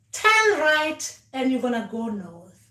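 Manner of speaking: slow, spelled-out directions; slow instruction. Shown as a demonstration. Ancestors giving step-by-step directions, slow and careful. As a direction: lay out each step slowly like a guide. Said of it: "not just give us instructions and saying".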